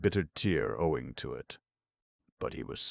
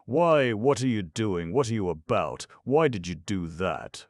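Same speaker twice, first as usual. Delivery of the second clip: loud, higher indignant protest; 6 semitones higher, 6 dB louder than usual. A narrator's reading. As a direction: protest in outrage. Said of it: "Fyodor Pavlovitch protested".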